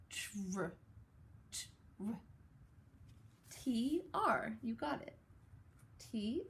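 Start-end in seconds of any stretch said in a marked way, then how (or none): 0.1-2.1 "Tr, tr" soft, last one whispered; sounding out tr. Shown as a demonstration. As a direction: breathe the "tr" blend softly. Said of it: "Listen closely".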